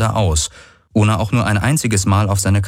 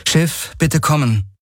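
calling the ship; 8 semitones higher than usual. Acted. Kirai calls the ship by radio.

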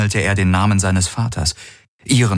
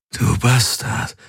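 slow, hoarse croak of triumph; slow rasping taunt; triumphant croak; 5 semitones higher, slower than usual. Acted. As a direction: croak it out, gloating. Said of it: "krächzte er triumphierend".

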